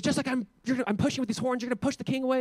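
high-pitched mock prophecy; theatrical prophet. Prophet with horns promising the king victory, theatrical display. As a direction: act out a showy prophet's demonstration. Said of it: "They're very theatrical".

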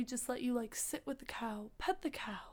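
quietly, fast then trailing; soft and hushed. Real, not acted. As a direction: drop to a soft hush. Describes gentle cow therapy.

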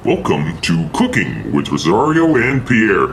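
slow, showy host welcome; show host intro. Acted. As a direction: sell the cooking show opening. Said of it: "Told you I say it better".

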